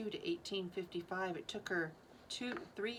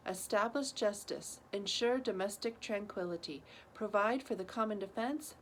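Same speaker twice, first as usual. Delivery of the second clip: measured, phrase-by-phrase formal reading; steady Preamble recital; formal recitation. Real, not acted. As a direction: recite it like a civic text. Recites Preamble over school PA.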